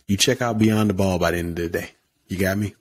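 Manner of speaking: lightly done coach voice, firm command. Pretend. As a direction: give the order like a coach, a hint of it. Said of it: "I'm putting my coach voice".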